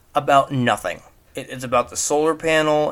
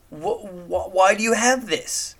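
exasperated disbelief; 8 semitones higher than usual. Real, not acted. Exasperated at Rick's RC car.

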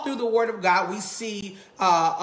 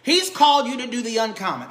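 preacher voice; 2 semitones higher, 3 dB louder than usual. Real, not acted. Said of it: "I feel my preacher voice".

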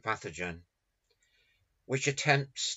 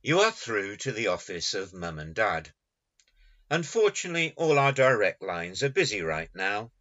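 phone menu voice; 3 dB louder than usual. Acted. Poem as answering machine message.

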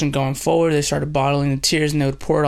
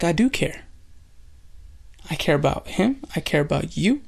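tender reassurance; 6 dB quieter than usual. Retold or imitated. Jesus answers the accusation tenderly.

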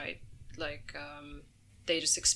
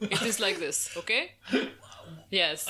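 fabricated Egyptian accent; 3 semitones higher than usual. Shown as a demonstration. Comic showing her stage voice to John, in made-up Egyptian accent. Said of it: "I would speak like this the whole time".

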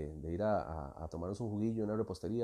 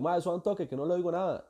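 raised, louder fake phone voice; pretend phone answer; 8 semitones higher, 4 dB louder than usual. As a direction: pretend you can't hear the caller, pitched up and loud. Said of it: "yo hago que contesto". (fingiendo una llamada, con voz alta y aguda)

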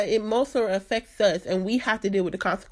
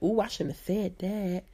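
quiet regretful aside; 2 semitones lower, 6 dB quieter than usual. Retold or imitated. Regret after blurting something.

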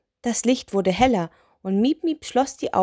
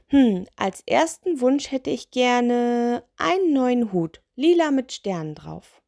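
lightly voiced witch, slow and higher; little witch; 5 semitones higher than usual. Witch makes her first wish, lightly voiced, pondering.

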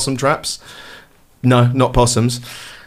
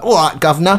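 hammed-up Cockney British accent; mock British accent; 3 semitones higher than usual. Mocking transatlantic viewers' attempts, exaggerated British accent. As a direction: parody a bad attempt at British English. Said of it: "when they do a British accent".

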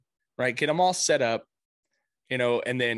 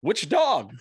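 imitating son; 3 semitones higher than usual. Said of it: "his first response is like".

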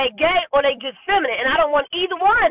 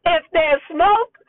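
slow, deliberate quoting of the elders' proverb; a slow, knowing proverb; old folks saying; 4 semitones higher than usual. Retold or imitated. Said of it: "the old folks used to say".

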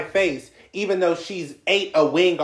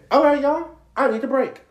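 high, strained announcement; exasperated announcement; 9 semitones higher than usual. Retold or imitated. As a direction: announce it, fed up, pitched high. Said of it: "just got up and said".

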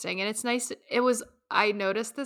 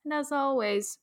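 put-on British accent; 2 semitones higher than usual. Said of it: "Should I do this in a British accent?".

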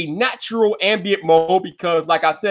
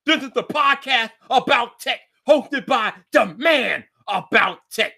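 higher-pitched, upbeat show-opener delivery; podcast intro; 4 semitones higher than usual. Acted. Host welcomes listeners to his tech podcast, announcer style.

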